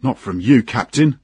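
mock the captain, rising on the title; lightly played tipsy cheek; amused taunt. Drunken engineer answering the angry captain back, amused and taunting. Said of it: "laughed the engineer".

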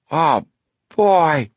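high, loud burst of glee; thrilled, high-pitched outburst; delighted exclamation. A narrator's reading. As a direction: exclaim it high with hungry excitement. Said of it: "Chet exclaimed".

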